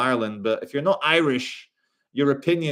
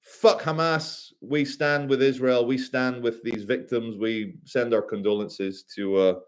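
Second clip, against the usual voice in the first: mock leader; 3 semitones lower than usual. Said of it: "every leader in the world was saying".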